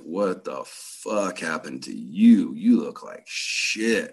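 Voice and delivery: a hint of the girlfriend, drawn out and slow; slow shocked girlfriend. Girlfriend seeing him wrecked, a slow lightly voiced shock. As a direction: let it out slowly, stunned at how rough he looks.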